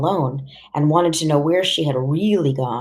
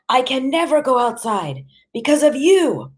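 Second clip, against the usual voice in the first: high-pitched, raging father; angry blame; 10 semitones higher than usual. A narrator's reading. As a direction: blame her bitterly in a raised voice. Enraged father blames mother in quarrel.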